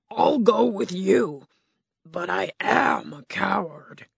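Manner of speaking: lightly voiced timid lion; a hint of a nervous big cat; cowardly lion. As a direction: play the lion, a bit unsure. Lion speaks.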